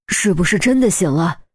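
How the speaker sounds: urgent hopeful question; eager father. Acted. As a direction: press for an answer quickly. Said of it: "于国庆也赶紧追问".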